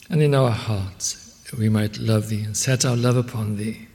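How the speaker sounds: earnest, measured prayer voice; closing prayer. Acted. Preacher leading the congregation in prayer, earnest. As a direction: pray over the congregation, steady and reverent.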